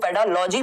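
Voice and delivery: पेडालॉजी, ending in "-lojee" like biology; mistaken l pronunciation. Shown as a demonstration. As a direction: say पेडालॉजी with an l replacing the g. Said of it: "पेडालॉजी तो खैर कोई शब्द नहीं होता". (पेडालॉजी में "ग" की जगह "ल" का गलत उच्चारण)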